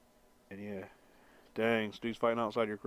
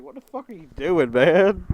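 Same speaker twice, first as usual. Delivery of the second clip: pitched-up cat voice; voicing the cat; 7 semitones higher, 11 dB louder than usual. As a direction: speak as the annoyed cat. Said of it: "It's like".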